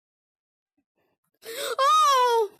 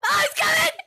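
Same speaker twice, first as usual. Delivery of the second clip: alarmed cry; 9 semitones higher, 5 dB louder than usual. Real, not acted. Monster approaching.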